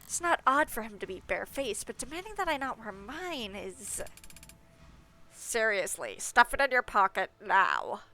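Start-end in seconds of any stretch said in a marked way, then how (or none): 5.4-8.0 louder pinched-nose voice; nasal gatekeeper voice. Acted. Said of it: "plugging my nose when I do his voice".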